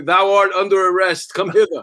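hammed-up archaic proclamation; mock olde English cop. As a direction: play a pompous Shakespearean policeman. Mock cop in elocution style.

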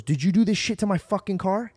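retold angry accusation. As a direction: mildly imitate a furious car owner.

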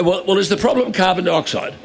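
stammering, faux-innocent question; playing dumb. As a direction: grope for the answer like a dunce. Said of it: "playing dumb".

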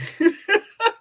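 high, loud laughter; real giggling fit. Real, not acted. Host tells guys this is funny, high helpless laughter.

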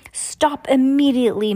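high, loud command; ordering. A narrator's reading. Mister Poe orders Olaf to stop, high and loud. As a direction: bark the order through the gate. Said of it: "Mister Poe ordered".

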